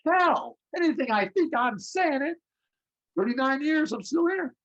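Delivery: high, rising, emphatic; worked up. Real, not acted. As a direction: voice climbing with feeling. Emotional high about career.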